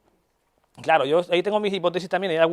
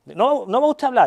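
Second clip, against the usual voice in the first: quoted patient; 7 semitones higher, 5 dB louder than usual. Retold or imitated. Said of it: "que tiene acento árabe".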